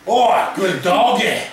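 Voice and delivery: put-on slow, drawn-out near-Australian accent. Victor petting Godzilla on the head, almost Australian accent. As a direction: coo it in a loose Australian accent. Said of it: "Almost Australian-like".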